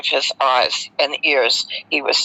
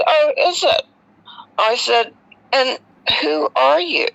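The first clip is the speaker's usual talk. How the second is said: cheeky retort; 7 semitones higher than usual. Retold or imitated. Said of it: "I can be a bit cheeky".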